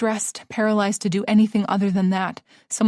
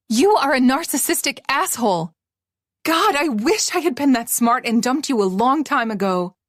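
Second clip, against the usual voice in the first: defiant; 3 semitones higher than usual. Acted. Mary telling him off.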